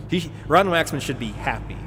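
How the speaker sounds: lightly put-on accent imitating someone; Ron Waxman's accent. Streamer imitating someone to viewers, light mimicked accent. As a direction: do a mild imitation of his accent. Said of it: "I'm still doing his accent".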